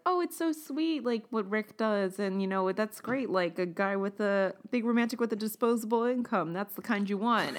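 put-on gushing girl. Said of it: "are like".

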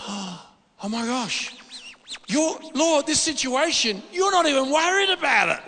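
slow gasp of awe, then climbing high and loud; rising into ecstatic amazement; awed exclamation. Retold or imitated. Preacher reliving his vision, crying out to the Lord in awe. Retold ecstatic cry in Zion.

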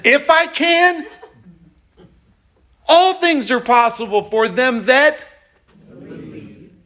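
high, loud, disbelieving If I can; Jesus scoffing at the doubt, pitch way up; incredulous Jesus. Retold or imitated. Jesus answering the doubting father, incredulous and loud. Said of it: "And Jesus says".

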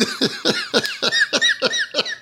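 high burst of helpless laughter; cracking up at the memory; big laugh. Real, not acted. Laughing hard while telling the canoe prank story.

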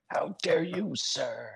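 hammed-up hoarse whisper; whispered indignation. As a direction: whisper it like an outraged film hero. Repeats the indignant film line.

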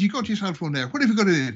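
high-pitched Irish brogue; Irish accent. Acted. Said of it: "the Irish was the thick guy".

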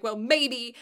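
a mildly mocked snap; imitating the teacher's curt snap; aggressive retort. Teacher snaps curtly at the crying child, mock sharp. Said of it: "she just said it really aggressively".

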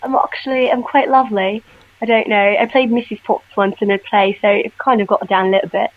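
lightly put-on British accent. Shown as a demonstration. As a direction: have a go at British English. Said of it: "Do, do a British accent".

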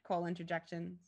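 ordinary delivery

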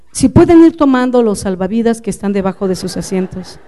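aviso sereno, tono contenido; calma en la tempestad. Retold or imitated. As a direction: imita al esposo tranquilo dando instrucciones. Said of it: "puede hablar tranquilamente en medio de la tempestad". (hablar tranquilo y sereno)

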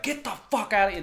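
loud, high imitated yell; retold yelling. Man yelling at his dog in the retold story, loud yell. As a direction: yell it like an owner scolding a dog. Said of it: "he's yelling at his dog".

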